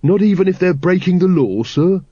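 high, put-on voice of an eager underling; incredulous Carrot. A narrator's reading. Carrot querying the captain's ban on arrests, incredulous. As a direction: question the order in high-pitched disbelief.

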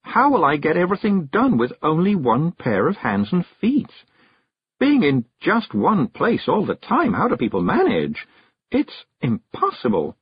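dazed musing that starts high and sinks, slowing; Miss Level, dreamily. A narrator's reading. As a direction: puzzle aloud, fading to helpless. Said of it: "dreamily to the world in general".

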